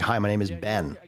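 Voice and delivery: light imitation of a thick Indian accent; a quick mock Indian call-center accent; imitating Indian accent. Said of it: "a very thick accent".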